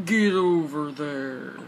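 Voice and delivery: slow, dragged-out game catchphrase; drawn-out battle cry. Pretend. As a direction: stretch the taunt out slowly. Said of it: "I know it's get over here, but I'm just trying to make my own".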